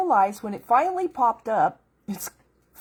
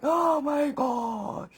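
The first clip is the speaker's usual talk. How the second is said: awed gasp; 5 semitones higher, much slower than usual. Retold or imitated. Awed at finding the verse.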